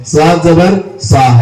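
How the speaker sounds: slow "صاد زبر سا" with a slightly thick s; thick saad. Shown as a demonstration. Teacher listing three similar letters, slow thick saad in "صاد زبر سا". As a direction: draw out "صاد زبر سا", making the s heavy. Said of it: "صاد کو تھوڑی موٹی آواز نکالنا چاہیے".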